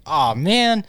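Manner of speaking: mock disappointment. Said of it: "they must have been like".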